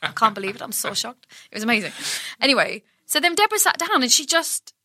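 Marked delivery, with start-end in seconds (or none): 0.0-1.3 lightly voiced, deadpan pop star; a well-known pop singer. Showing off a celebrity impression, lightly imitated deadpan shock. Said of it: "her face doesn't change".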